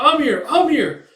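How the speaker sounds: high, loud, drawn-out name call. Retold or imitated. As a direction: shout to find a missing person. Husband calling out to find her.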